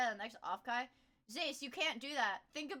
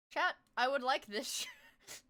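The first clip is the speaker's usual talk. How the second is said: slow whiny plea; slower than usual. Shown as a demonstration. Whining request to chat.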